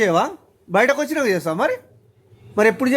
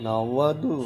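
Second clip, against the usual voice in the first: laughing; 7 semitones lower, 7 dB quieter, slower than usual. Real, not acted. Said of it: "నవ్వద్దు చెప్తున్నాను".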